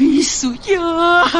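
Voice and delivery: slow tearful calling of her daughter's name; crying. Acted. Mother answers her worried daughter while weeping. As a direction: say her name through sobs.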